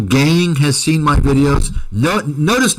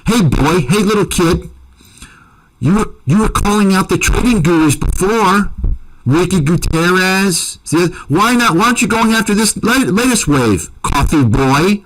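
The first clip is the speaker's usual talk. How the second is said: mock-addressed taunt at a rival, pitched up; 4 semitones higher than usual. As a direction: needle him like a schoolyard bully. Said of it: "send him this clip".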